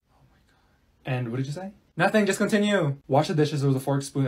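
ordinary talk

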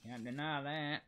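light put-on southern accent. Player praising own headshot, light mock southern accent. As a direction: brag in a hint of a southern accent. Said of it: "I was doing a southern accent".

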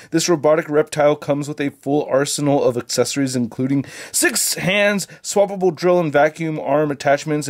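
muffled behind a face mask; talking through a mask. Real, not acted. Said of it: "it sounds like I'm talking through a mask".

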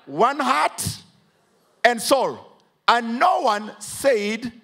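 slow, drawn-out pulpit reading; deliberate scripture reading to the congregation; preacher reading scripture. Acted. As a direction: linger on each phrase of the verse.

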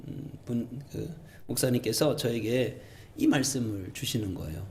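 normal talking voice

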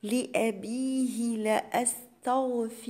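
drawn-out tajweed chant, each syllable held; slow Quran recitation. Shown as a demonstration. Teacher recites the verse to students as a slow chant. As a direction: recite it slowly for the students, holding the long vowels. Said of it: "أكسر الباء والهاء".

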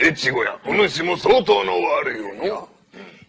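ゆっくり悪代官の台詞; 「相当」を上げてゆっくり言う; 悪代官. Acted. (越後屋に語りかける悪代官、ゆっくり)

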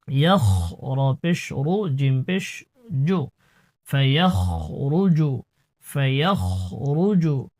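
ফায়াখরুজু with a heavy, throaty খ; thick kha. Shown as a demonstration. Teacher showing the heavy throaty kha. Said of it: "খর উচ্চারণটি মোটা করতে হবে".

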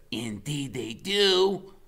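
slow grave reply; a hint of an ominous knight; lightly voiced Freak. A narrator's reading. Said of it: "Freak says".

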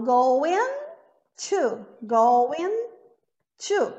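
going to with no G sound, goin' to; going to without G. Shown as a demonstration. Teacher showing going to with the G dropped. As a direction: drop the G in going to. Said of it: "não posso falar going to".

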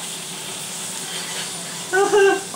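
unvoiced high giggle; breathy high laugh. Real, not acted. Gamer cracking up at a kill, wheezing laugh. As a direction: let a silent wheeze of a laugh out.

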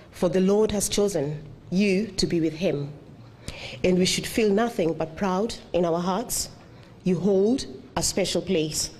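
measured, heartfelt poem reading at a funeral; poem recital. Acted. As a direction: recite the memorial poem gently, line by line. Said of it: "I'll just go into the poem".

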